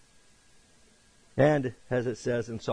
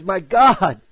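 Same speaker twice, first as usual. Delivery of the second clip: raised, loud retelling of a cry; emphatic anguished cry; 6 semitones higher, 10 dB louder than usual. Retold or imitated. Preacher showing how Jesus emphasizes it, crying out in anguish. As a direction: hit it hard, imitating anguish. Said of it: "He emphasizes".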